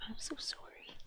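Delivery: a breath of an apology; fainter whisper. Real, not acted. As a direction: let it fade to almost nothing. Apologising softly to the cat.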